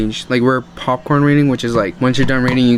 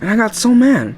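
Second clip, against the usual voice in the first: mock anger; 8 semitones higher than usual. Recalling anger.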